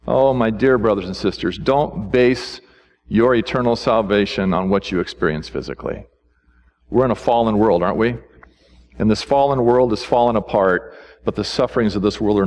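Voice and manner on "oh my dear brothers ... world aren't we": lower, gentle pastoral pleading; tender appeal. Real, not acted. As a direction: plead gently with the congregation, voice dropped low. Preacher tenderly pleading with believers.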